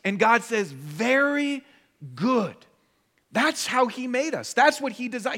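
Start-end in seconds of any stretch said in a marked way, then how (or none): 0.7-2.5 voice of God. Acted. God pronouncing creation very good.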